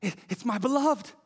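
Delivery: breathless exclamations of a woman in love; short excited exclamations. Acted. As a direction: call out each word with delight. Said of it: "very short with exclamation".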